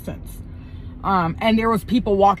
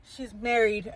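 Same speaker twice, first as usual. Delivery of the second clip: softer mock whisper; retold attempted whisper; 6 dB quieter, slower than usual. A man confides in someone nearby, imitated half-hearted whisper. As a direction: imitate someone trying to whisper, still audible. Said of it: "he tries to whisper, but I heard him".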